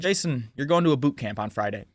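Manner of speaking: calm announcement. Retold or imitated. Probation officer telling a defiant kid his consequence, very calmly. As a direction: deliver the consequence without any threat. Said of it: "She just very calmly said".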